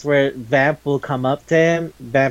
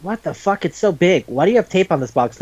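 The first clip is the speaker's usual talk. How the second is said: startled disbelief; 4 semitones higher than usual. Retold or imitated. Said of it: "And he goes".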